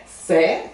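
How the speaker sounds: "Sais" with an open e, final s silent; sais demo. Shown as a demonstration. Teacher repeats "Sais" so students copy the vowel. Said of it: "que fala sais".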